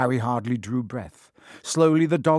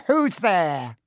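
high, loud startled call; sudden challenge; 7 semitones higher, 6 dB louder than usual. A narrator's reading. Peeves hears intruders on the stairs, sudden high challenge. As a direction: call out suddenly, pitched well up. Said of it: "he said suddenly".

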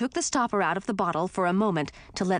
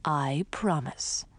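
solemnly; 2 semitones lower, slower than usual. Acted. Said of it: "Grandfather said solemnly".

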